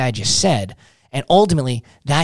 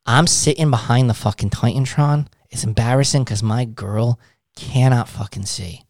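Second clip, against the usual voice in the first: defeated; 4 semitones lower than usual. Shown as a demonstration. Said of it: "Act defeated within their means".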